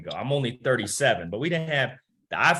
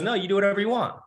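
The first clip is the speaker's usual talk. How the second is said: voicing the mother-in-law; 9 semitones higher, faster than usual. Mother-in-law quoted in story.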